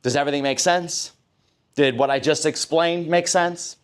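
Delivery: open check-in. Shown as a demonstration. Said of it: "when you're explaining".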